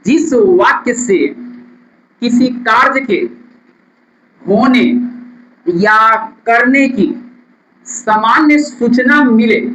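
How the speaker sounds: word by word with long pauses, like dictating notes. Shown as a demonstration. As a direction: dictate the definition phrase by phrase. Teacher dictating definition.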